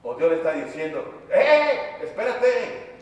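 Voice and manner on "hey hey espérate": high-pitched call to stop someone; sudden high halting call. Acted. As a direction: call out "hold on", voice jumping up. God calling someone to halt.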